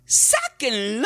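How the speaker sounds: high, slow drawn-out yell; a man at the back yells; mob shout. Acted. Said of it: "uno gritó". (un hombre de atrás grita, alto y lento)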